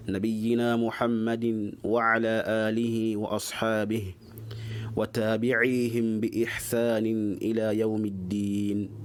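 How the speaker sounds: steady monotone Arabic recital; formal opening invocation. Real, not acted. Teacher opening a religious lesson with praise of God, formal monotone invocation. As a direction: recite the opening praise evenly, barely moving in pitch.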